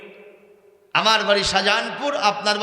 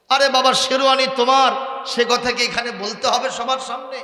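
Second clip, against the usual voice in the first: scolding; 4 semitones higher, 3 dB louder than usual. Retold or imitated. Father scolds groom again.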